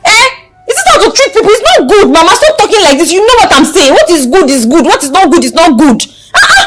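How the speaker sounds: insistent, exasperated appeal; indignant protest. Acted. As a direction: argue heatedly, hardly stopping. Arguing with mother for the tenant.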